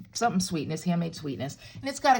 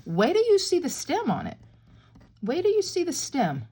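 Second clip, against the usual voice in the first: much higher, louder, thrilled teasing; excited; 9 semitones higher, 4 dB louder than usual. Real, not acted. Crafter teasing viewers about the strawberry stem, excited. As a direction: build up the reveal with glee.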